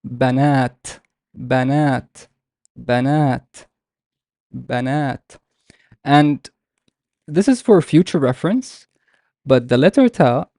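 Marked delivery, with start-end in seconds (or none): 0.1-5.4 banat with a long second vowel; long fatha. Shown as a demonstration. Teacher models how to pronounce it, banat with long final vowel. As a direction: hold the second a in banat, each repeat set apart. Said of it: "a long fatha. So how would I pronounce it?".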